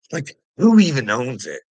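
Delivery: loud, scornful question; imitating a loud, dismissive bully; mock narcissist. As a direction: sneer it out at full volume. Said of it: "That's what a little narcissist would do".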